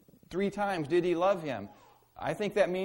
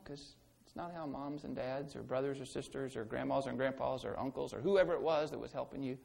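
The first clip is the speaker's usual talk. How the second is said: usual speaking voice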